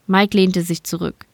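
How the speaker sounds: ordinary delivery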